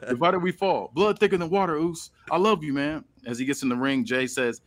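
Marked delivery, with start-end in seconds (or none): 0.1-3.0 a hint of a hurt brother, a bit higher; lightly voiced pleading wrestler; voicing Jimmy. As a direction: plead with your twin, lightly acted. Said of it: "He's like".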